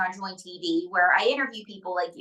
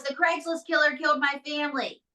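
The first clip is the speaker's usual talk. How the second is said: retold outburst; 5 semitones higher than usual. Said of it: "and she goes".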